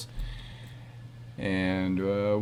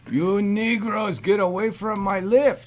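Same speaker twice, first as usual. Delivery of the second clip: put-on cabbie voice; 5 semitones higher than usual. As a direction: shoo them from the cab in character. Cab driver yells at passengers.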